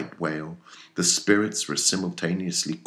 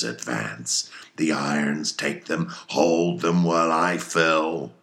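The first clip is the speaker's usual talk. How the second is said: put-on a fierce old sea captain rallying his crew; commanding, hammy captain with bursts of loud toasts; Captain Ahab voiced; 4 dB louder than usual. Ahab to his mates and harpooneers, commanding and fierce.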